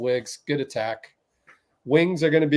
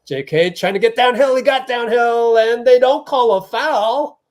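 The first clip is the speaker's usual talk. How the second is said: excited play-by-play; 8 semitones higher, 6 dB louder than usual. Real, not acted. Live reaction to a missed foul.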